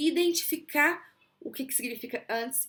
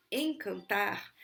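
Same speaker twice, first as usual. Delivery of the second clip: slow word demo; 2 semitones lower, much slower than usual. Shown as a demonstration. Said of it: "os sons podem ser".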